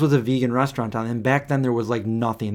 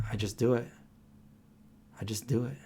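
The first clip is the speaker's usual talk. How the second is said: smug; 8 dB quieter than usual. Retold or imitated. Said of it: "I'm like".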